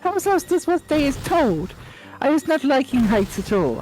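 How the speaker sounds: high timid elf squeak; small eager elf introducing herself; house elf voice. Acted. Winky greets Harry, high timid squeak.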